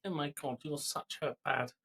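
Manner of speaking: half-hearted Eastern European nagging mum; terrible Eastern European accent. Retold or imitated. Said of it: "in a terrible Eastern European accent".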